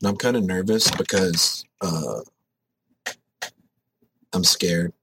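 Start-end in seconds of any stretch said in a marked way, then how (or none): 1.8-4.9 scared whisper. Acted. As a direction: whisper it like a secret fear. Admits fear before heavy squats.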